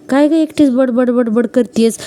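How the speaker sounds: slow, drawn-out nosy cellmate voice; a hint of a prying fellow prisoner; teasing cellmate. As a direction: lean in and needle her, slowly.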